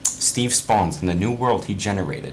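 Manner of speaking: reading through giggles; can barely get the line out for laughing; laughing while reading. Real, not acted. Reading fanfic to friends, cracking up. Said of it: "Okay, let me calm down".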